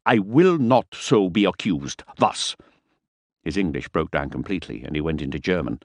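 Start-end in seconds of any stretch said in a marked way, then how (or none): 0.0-2.5 declaring loudly. Acted. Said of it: "he declared loudly".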